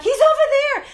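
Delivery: loud excited call. Retold or imitated. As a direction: call it out across the lot. Calling out in parking lot.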